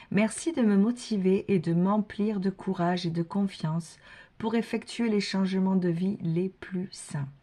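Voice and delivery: a lightly intoned prayer; prayer recitation. Acted. Reader reciting the archangel prayer to viewers.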